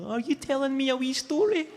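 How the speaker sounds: put-on high cooing voice for a baby; sing-song baby talk. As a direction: coo it up high like to an infant. Talking to a baby.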